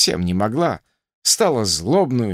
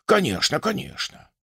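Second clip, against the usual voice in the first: breezy, higher-pitched professor's comfort; good-natured reassurance; 5 semitones higher, 3 dB quieter than usual. A narrator's reading. Professor brushing off an anxious patient's question, good-natured reassurance. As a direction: wave the worry away good-naturedly. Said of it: "благодушно ответил профессор".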